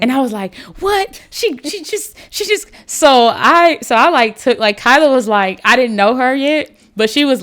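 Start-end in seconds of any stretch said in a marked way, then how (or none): 0.8-2.7 high-pitched, stammering incredulous reaction; stunned disbelief. Retold or imitated. Retelling her stunned reaction.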